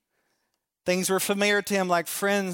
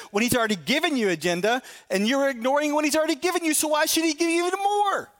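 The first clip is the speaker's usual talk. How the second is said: rising higher and faster to a peak; building passionate preaching; 9 semitones higher, faster than usual. Real, not acted. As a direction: climb in pitch and pace to a fervent peak. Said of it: "preacher builds to climax".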